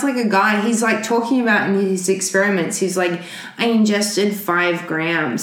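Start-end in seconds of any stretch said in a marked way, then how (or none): 3.6-5.4 slow, lightly nerdy lab voice; a hint of a nerdy scientist; nerd voice. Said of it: "Now you're doing the nerd voice".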